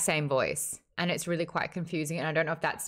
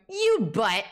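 imitating Trisha; 4 semitones higher, 4 dB louder than usual. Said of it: "the sound where it's Trisha going".

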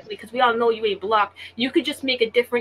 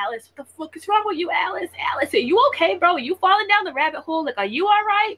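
higher-pitched, exasperated call across the stream; 5 semitones higher, 3 dB louder than usual. Real, not acted. Streamer to troll Alice, high exasperated calling out. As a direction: call her out like she's lost it.

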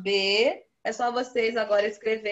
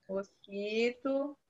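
slow dictation; 8 dB quieter, much slower than usual. Shown as a demonstration.

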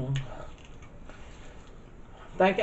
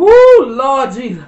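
slow, loud, higher cry of pain; loud pained exclamation; 6 semitones higher, 12 dB louder, much slower than usual. Real, not acted. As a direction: wail it out from the burn. Mouth burning from hot sauce.

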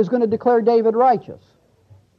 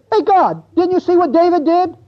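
mock accuser; 6 semitones higher than usual. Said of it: "someone says".

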